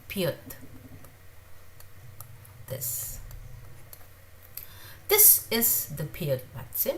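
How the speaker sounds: Pyth with a sound between P and B; pronunciation demo. Shown as a demonstration. Teacher repeating Pyth for learners, careful. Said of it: "somewhere between B and B".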